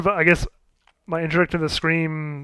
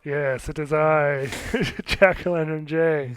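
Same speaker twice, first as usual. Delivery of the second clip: slow, drawn-out mock-spooky reply; spooky Jack-O-Lantern co-host; slower than usual. Co-host introduced as Jack-O-Lantern Jay, mock-spooky. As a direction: play along with slow, theatrical gravity.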